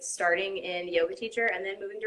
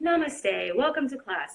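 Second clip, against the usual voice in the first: breathy, airy, high yoga instructor voice; 5 semitones higher than usual. Showing the lightweight air example: breathy yoga teacher voice. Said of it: "put my hand in front of my mouth and say".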